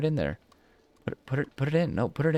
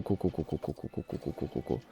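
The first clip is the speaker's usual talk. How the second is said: fading to whisper; 5 semitones lower, 9 dB quieter than usual. Real, not acted. Repeating word fading out.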